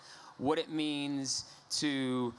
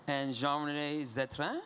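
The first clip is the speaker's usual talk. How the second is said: French accent; 2 semitones higher than usual. Shown as a demonstration. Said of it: "I can practice my French accent".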